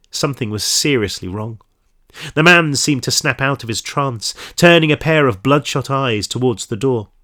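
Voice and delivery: measured audiobook-style story reading; story narration. A narrator's reading. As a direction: read the crime story aloud to listeners. Reads story aloud.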